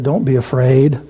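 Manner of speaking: the man of God very calmly said; calm reassurance. Retold or imitated. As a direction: soothe the frightened servant unhurriedly. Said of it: "very calmly said".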